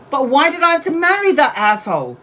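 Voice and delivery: a hint of an exasperated client; mock client whine. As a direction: play the fed-up client, lightly. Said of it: "Sometimes people will say to me".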